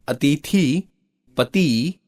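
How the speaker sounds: अतिथि and पति with long i; mispronounced words. Shown as a demonstration. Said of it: "शब्दों की वर्तनी अशुद्ध है". (अतिथि, पति में लंबी ई)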